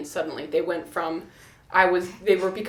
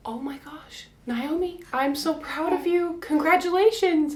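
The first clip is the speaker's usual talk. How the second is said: proud midwife; 8 semitones higher than usual. Retold or imitated. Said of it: "and she goes".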